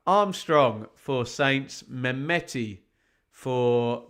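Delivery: slow, deliberate results read; score announcer. Real, not acted. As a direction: read out the scorelines, drawing them out. Reads out latest scores.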